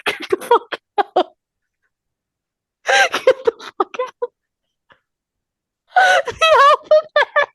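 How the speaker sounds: high, slow, laughing through the words; laughing disbelief. Real, not acted. Cohost realizes their mistake: high, laughing disbelief. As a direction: gasp it out mid-laugh, way up high. Shocked by alphabet revelation.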